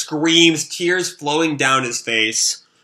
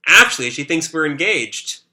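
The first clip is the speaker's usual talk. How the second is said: voiced as Yuri. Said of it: "that's, uh, Shiro talking".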